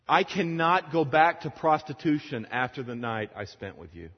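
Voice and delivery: high, loud acted outburst; retold anguished yelling. Woman refusing her old life, acted loud anguished outburst. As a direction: yell it as her desperate accusation. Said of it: "she's crying and yelling and cursing at him".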